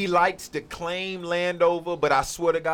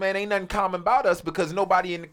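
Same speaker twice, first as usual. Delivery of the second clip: high, loud, fast rant; heated rant; 4 semitones higher, 4 dB louder than usual. Real, not acted. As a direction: push it hard and fast.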